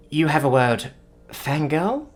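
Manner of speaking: put-on lightly mangled English word in a strong alien accent; a Gowrie stumbling over an English loanword. A narrator's reading. Gowrie student asking the reporter for a word, lightly accented. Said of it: "sounded a little mangled ... strong accent".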